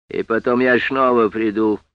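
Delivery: lisping, with a slushy sh for every s. Acted. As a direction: let the s sounds slur into sh. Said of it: "своим странным шепелявым голосом".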